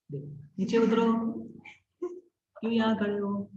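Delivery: mock scolding said far too lovingly; imitated gentle scolding. Teacher mimicking a woman telling children to get down, mock-gently. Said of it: "प्रेम से बोल रही है".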